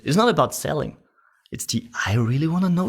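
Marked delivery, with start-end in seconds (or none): 2.1-2.9 high, curious and sincere; really wanna know tonality. Shown as a demonstration. Salesman demonstrating a curious tone. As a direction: say it as if you truly want to know.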